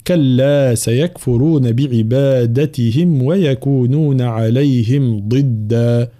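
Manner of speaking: slow measured tajweed reading; drawn-out teaching recitation; Quran recitation. Shown as a demonstration. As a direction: recite slowly with long held vowels. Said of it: "في قوله تعالى".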